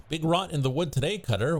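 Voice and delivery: a hint of a spooky character; odd voice. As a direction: greet the cutter unnaturally. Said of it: "You don't talk like that".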